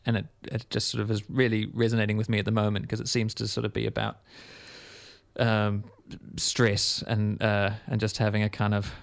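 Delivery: blocked nose from toilet paper. Real, not acted. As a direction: talk with a wad up one nostril. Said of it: "Even with that wad of toilet paper up your nose".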